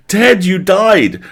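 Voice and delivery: high, slow stretched scream; hammed-up ghost-story scream; mock scream. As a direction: shriek it out in fake shock. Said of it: "Vince screamed".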